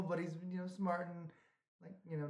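very soft, trailing mumble into the mic; quasi whispering. Real, not acted. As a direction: let the voice drop right down. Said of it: "Why, why are you whispering?".

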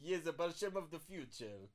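Russian accent. Shown as a demonstration. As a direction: give Alexei a Russian accent. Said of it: "do the accent for Alexei".

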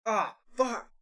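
high-pitched imitated swearing; mock mad outburst. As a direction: curse like the exasperated driver in your story. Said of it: "walks off all mad".

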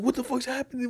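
high-pitched retold freak-out; mock yelling. Retelling a man's rant at a car door, mock yelling. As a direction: imitate an irate man without full volume. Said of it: "like, yelling".

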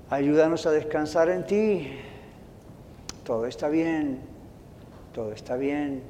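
a pastor praying over his congregation; prayer. Acted. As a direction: pray aloud for the church. Pastor leads a closing prayer.

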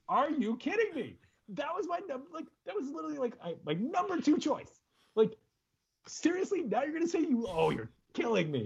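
very high, squeaky disbelief; mock-outraged, high-pitched protest; incredulous outburst. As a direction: re-enact being floored, voice shooting way up. Retells own disbelief at wife.

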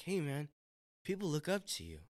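high, light, kindly reminder; gentle correction. Retold or imitated. Friend gently correcting a leader, light and kind. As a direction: retell it gently, lifted and unforced. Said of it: "it was with gentleness".

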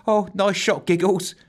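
high, delighted cheer. A narrator's reading. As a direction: cheer her on brightly and high. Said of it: "cheered Bracy".

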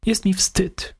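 ashamed suspect. A narrator's reading. Suspect repeats.

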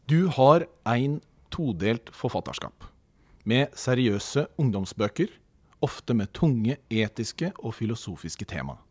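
careful read-aloud delivery, pausing between phrases. Real, not acted. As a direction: read out a written question in measured phrases. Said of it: "jeg leser". (høytlesning av et skriftlig spørsmål)

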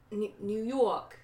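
"New York" drawn out in a New York accent; tentative, stretched New York accent. Shown as a demonstration. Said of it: "Is that New York?".

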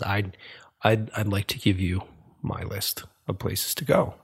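lightly voiced old stranger, soft and unhurried; a hint of a raspy old barfly; quiet, mildly put-on old man's voice; a singer. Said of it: "he speaks with an old singer's voice".

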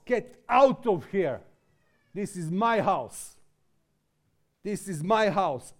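slow, measured rebuke of the money traders; mock holy anger. Jesus clearing the temple, in slow stern anger. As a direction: drive them out, weighing each word. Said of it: "outburst of his holy anger".

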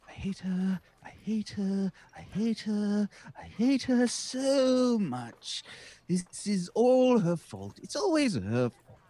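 grumbling character. Acted. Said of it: "I'm just mumbling the whole way".

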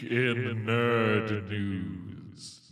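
slow, soft ominous villain announcer; movie villain voice. Acted. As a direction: draw it out like a Marvel villain. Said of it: "You sound like the villain in a Marvel film".

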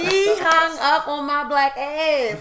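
loud, high, drawn-out disbelief; hammed-up outraged holler; mock outrage. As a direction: wail it slowly in exaggerated indignation. Outraged replay of being hung up on.

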